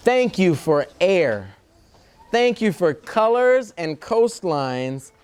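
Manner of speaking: slow, measured picture-book reading with long pauses; reading to children. Acted. Reader shares a love letter to Earth with children, slow storytime reading. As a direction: read it out phrase by phrase for little listeners.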